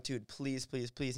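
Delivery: soft, repeated begging; pleading. Retold or imitated. Begging rapper not to smoke in mom's car, soft pleading. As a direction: beg under your breath, retold lightly.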